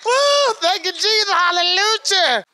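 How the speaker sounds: high excited praise, woo thank you; joyful woo. Retold or imitated. Celebrating leaving the drug program, high excited shout. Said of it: "I was like".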